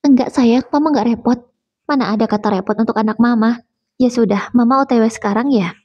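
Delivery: fussing mother on the phone, lightly done; lightly voiced worried mother. (ibu yang khawatir bicara lewat telepon, suara sedikit lebih tinggi)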